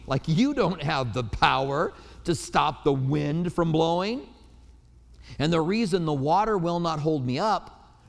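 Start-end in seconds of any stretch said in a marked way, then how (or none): 0.3-4.2 slow, taunting voice of the wind; lightly voiced wind taunting him slowly; mocking wind. Pastor voicing the wind mocking his command, slow taunt. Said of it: "It was like the wind mocked me".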